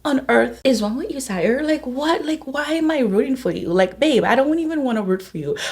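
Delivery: playfully fed-up rant; retold exasperation. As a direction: tell him off, incredulous, without shouting. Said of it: "I was so mad at him".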